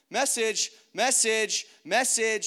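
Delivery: high, loud repeated call; insistent alert. Retold or imitated. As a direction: sound it like an alarm going off. Alarm signal going off in him.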